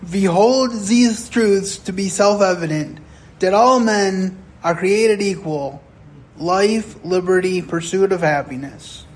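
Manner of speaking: put-on proud old man, Russian accent. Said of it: "With a heavy Russian accent".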